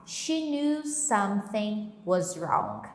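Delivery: She knew something was wrong said slowly and carefully; slow model sentence. Shown as a demonstration. Teacher reading an example sentence slowly. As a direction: lay out each word for the class. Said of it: "eu posso falar assim".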